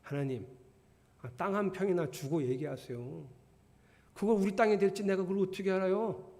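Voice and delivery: mock cheeky challenge to God; demonstrated impudent questioning; wrong, insolent reading. Shown as a demonstration. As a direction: talk back as if demanding proof. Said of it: "이렇게 읽으시면 좀 곤란해요".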